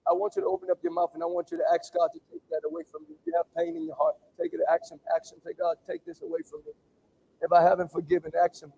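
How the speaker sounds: soft, fast, low prayer guidance; hushed guidance. Real, not acted. Preacher guiding the congregation in prayer, hushed. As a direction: lead them gently, almost under breath.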